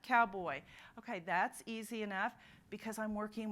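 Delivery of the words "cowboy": cowboy blended back, loud and falling; modeled blend. Shown as a demonstration. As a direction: say the rejoined word firmly. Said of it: "I put it back together".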